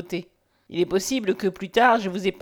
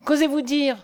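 higher-pitched indignant question; shocked outburst, pitch raised; outraged cry; 6 semitones higher than usual. A narrator's reading. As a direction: challenge him, beside yourself. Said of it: "s'écria Nathalie hors d'elle".

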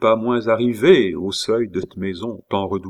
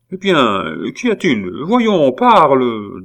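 higher, louder prodding command; impatient demand; 5 semitones higher, 6 dB louder, slower than usual. A narrator's reading. Old aunt questioning her nephew, impatient. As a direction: press for an answer, drawing out the last word.

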